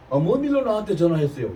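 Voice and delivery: brusque offhand question; curt casual tone. Shown as a demonstration. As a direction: toss it off bluntly and casually. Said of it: "내가 이렇게 금방지게 얘기한 거 아니에요". (퉁명스럽고 반말 섞인 말투)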